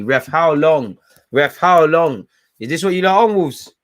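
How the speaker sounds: loud, exasperated call to the referee; shouting at ref. Real, not acted. Fan yelling at the referee for the time left. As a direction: bellow it at the ref from the sofa.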